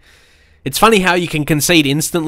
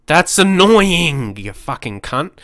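annoyed swearing; 2 semitones higher, slower than usual. Real, not acted. Gamer cursing after the late equaliser, muttered anger. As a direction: grumble the insult under the breath. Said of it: "sorry for getting mad".

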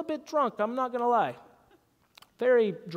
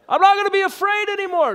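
high, louder shouted vow; yelled declaration; 10 semitones higher, 7 dB louder than usual. Retold or imitated. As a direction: yell it at the top of your lungs. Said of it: "he makes me yell this".

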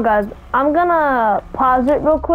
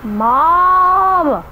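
calling out; 6 semitones higher, 3 dB louder than usual. Real, not acted. Calling out to his mother.

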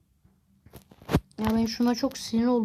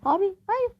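dismayed cry; 11 semitones higher, 3 dB louder than usual. Real, not acted. Sudden danger in game.

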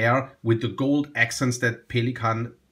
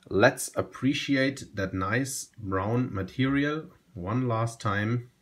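fading hush; 5 semitones lower, 6 dB quieter than usual. Real, not acted. Closing look at the pen.

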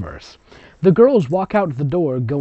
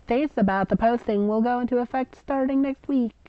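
high, perky fan-fiction author; mock author voice; 7 semitones higher than usual. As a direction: read it like a chirpy teen writer. Reads author's note in voice.

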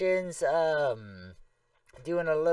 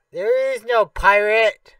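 indignant outburst; 4 semitones higher, 9 dB louder, slower than usual. Real, not acted.

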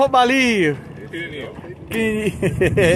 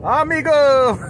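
entonação do Ismael; 5 semitones higher than usual. Retold or imitated. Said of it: "tô até pegando a entonação do Ismael de falar".

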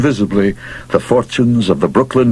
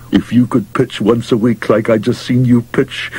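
gruff pushy manager; 3 semitones higher than usual. Acted. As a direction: push hard like a desperate manager. Mouth praising pitcher.

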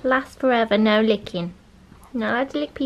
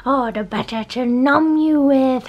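1 voicing the wolf; 4 dB louder, slower than usual.

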